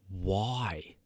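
breathy whispered why; a quick whispered aside. Retold or imitated. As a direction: drop to a bare whisper. Whispered aside in retold exchange.

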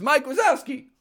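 put-on very high toddler voice; Boo. Toddler names the one-eyed duck, very high cry. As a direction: pipe it up like a small child. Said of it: "Boo again says".

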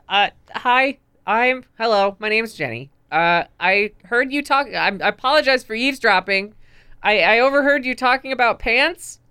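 Jenny in character. Acted. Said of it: "Jenny puts her hands up and says".

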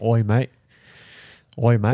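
mock Australian greeting; playful put-on Aussie accent; broad Australian vowels on "mate".

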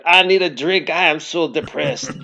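a hint of a hammed-up French lament; mock French narrator. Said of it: "I hear this French voice".

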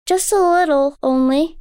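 put-on high, wondering child; a little girl full of awe; young girl voice. A narrator's reading. Daughter tells her mother about the moonlit lake, in wonder.

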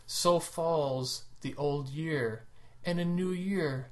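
slow, solemn poetic recital; creepy dramatic recital. Acted. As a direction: intone it like a grand poem, slowly. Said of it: "that was really creepy".

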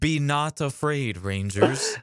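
lightly put-on Jesus type; Demetria. Demetria reassuring the Rangers, mock-holy calm. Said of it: "weird imitation of a Jesus type of character".

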